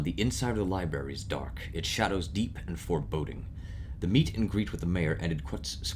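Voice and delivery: calm, measured storytelling voice; story narration. A narrator's reading. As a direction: read it like a novel narrator. Reads game narration.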